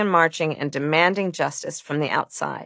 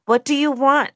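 higher-pitched, coaxing question; lilting, high, trying to soothe a child; soothing mother; 8 semitones higher than usual. A narrator's reading. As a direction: ask it like a parent soothing a fussy toddler. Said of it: "she asked, trying to soothe me".

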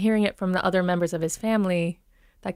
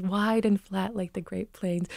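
wide, flat Minnesota vowels; Minnesota accent; 5 dB quieter than usual. Shown as a demonstration. Coach quoting how it was described, Minnesota accent. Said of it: "The Minnesota accent is".

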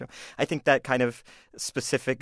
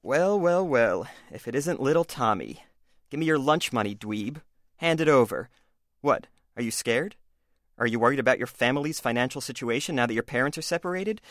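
smug bully voice. Acted. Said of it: "this is called A Bully Does His Research".

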